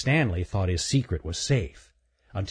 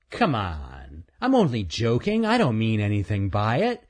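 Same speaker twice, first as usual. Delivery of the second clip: lightly raised, cocky chipmunk voice; a smug little chipmunk; teasing chipmunk. Acted. Earl's voice.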